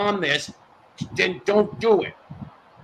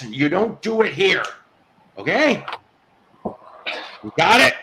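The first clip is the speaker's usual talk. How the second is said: firm, fed-up warning to the chat; angry scolding; 4 semitones lower than usual. Real, not acted. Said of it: "and I'm angry".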